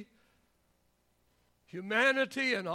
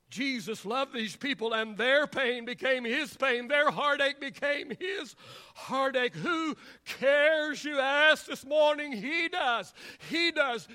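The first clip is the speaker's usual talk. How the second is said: impassioned preaching; 2 semitones higher, 3 dB louder than usual. Acted. Preacher to congregation on Jesus sharing their pain, impassioned. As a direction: preach it in rising, driven phrases.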